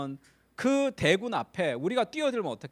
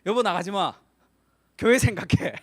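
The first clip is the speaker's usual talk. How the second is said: urgent plea; 7 dB louder than usual. Retold or imitated. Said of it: "저희 아내가 와서 그렇게 얘기하더라고요".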